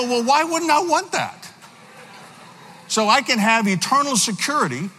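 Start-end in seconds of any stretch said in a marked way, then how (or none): 0.0-1.5 much higher, laughing through it; laughing reply. Retold or imitated. Student tells his roommate, laughing. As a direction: toss it off with a laugh.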